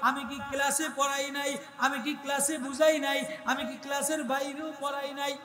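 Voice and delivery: a hint of an exasperated schoolmaster; scolding teacher. Teacher scolding pupils who failed, mildly exasperated. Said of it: "master রাগ হইয়া যায়".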